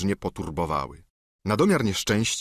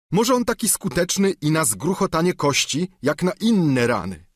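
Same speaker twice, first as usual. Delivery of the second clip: higher, whining plea; pleading squire; 6 semitones higher, 3 dB louder than usual. Acted. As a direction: beg like a bruised peasant. Sancho voiced.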